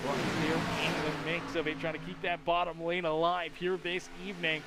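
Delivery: brisk play-by-play call; steady live sportscaster read; race commentary. Acted.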